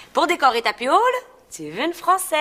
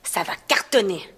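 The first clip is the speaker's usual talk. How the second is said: confident put-on Parisian French; affected Parisian accent. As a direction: predict success in a fake Paris accent. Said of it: "mon nouvel accent".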